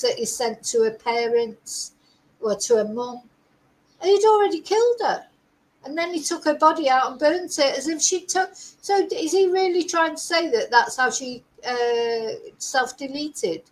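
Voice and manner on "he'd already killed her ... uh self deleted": incredulous. Real, not acted. Incredulous at defence argument.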